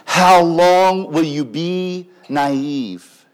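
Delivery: loud, drawn-out appeal; crying out. Acted. Wisdom at the city gate to the naive, crying out. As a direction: cry it out slowly to the naive. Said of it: "And she's crying out".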